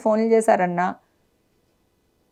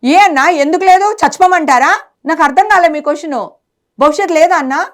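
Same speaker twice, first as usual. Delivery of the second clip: raised, pained voice pleading her case; higher and heated, fighting for her name; hurt woman protesting to the interviewer, voice raised and pained; upset protest; 5 semitones higher than usual. Real, not acted.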